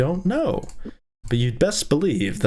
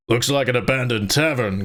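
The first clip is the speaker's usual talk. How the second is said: Gorth. Acted. Reader correcting himself to voice a companion in the tavern, put-on voice. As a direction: drop into a companion's level, altered voice. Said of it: "Gorth said".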